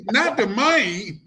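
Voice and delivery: slow teasing echo, "money" drawn out like "mayne"; mock the Southern "man" in "money"; mimicked drawl on "money". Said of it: "you gonna get us on our vernacular".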